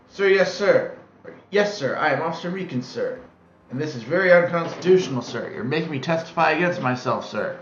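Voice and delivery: barking every sir like a recruit; eager drill-sergeant-style yes sir; loud gung-ho soldier. Acted. Soldierly cop answers the court.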